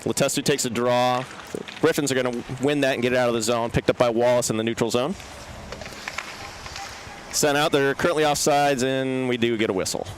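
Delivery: sniffly runny nose; sniffles. Real, not acted. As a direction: talk through real sniffles. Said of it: "Sorry about the sniffles".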